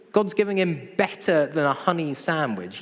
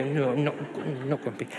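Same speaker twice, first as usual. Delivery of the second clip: hammed-up grumpy muttering, fading; mock grumpy. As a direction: grumble a denial in playful imitation. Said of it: "And I go".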